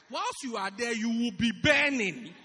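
urgent warning. Retold or imitated. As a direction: urge them to leave the fire now. Pastor urging someone away.

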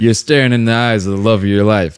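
lightly voiced romantic movie narrator; a hint of a cowboy film line; Sam Elliott voice. Co-host slips into movie romance talk, lightly voiced Sam Elliott. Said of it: "I turned into Sam Elliott".

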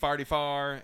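forty-four said as Farty Far in a St. Louis accent. Shown as a demonstration. Podcaster showing how St. Louis locals say it, St. Louis accent. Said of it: "is a Saint Louis accent".

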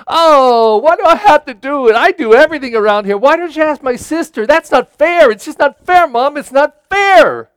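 put-on sulky child's protest, fast in the middle; whining kid. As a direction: whine it like a kid stuck with chores. Whining kid asked to do chores.

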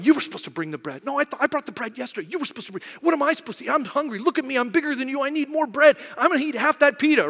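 quick back-and-forth squabble, rising in pitch; mock bickering. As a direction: act out a petty argument about food. Acting out disciples bickering over bread.

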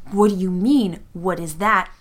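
slow down hard on the last question; menacing. Acted. Sal confronts Duarte over the weapons, menacingly. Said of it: "Very menacingly".

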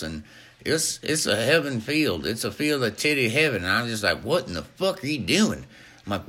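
lively, swooping comic character voice; lightly voiced excitable good old boy; enthusiastic oddball guest. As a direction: ramble with growing gusto. Plays Richard, an enthusiastic guest character.

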